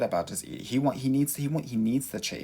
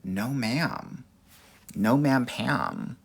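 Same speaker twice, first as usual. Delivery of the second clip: sassy refusal; much slower than usual. Pretend. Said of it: "then I'm gonna say".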